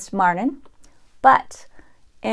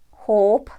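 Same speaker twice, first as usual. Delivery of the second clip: usual speaking voice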